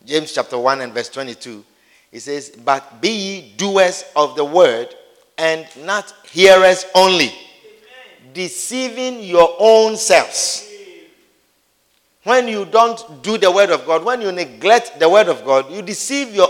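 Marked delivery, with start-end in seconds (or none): 2.5-10.7 slow scripture reading. Real, not acted. Scripture read slowly.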